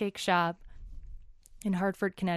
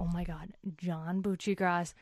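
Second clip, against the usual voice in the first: freaking out. Retold or imitated. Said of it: "like, freaking out".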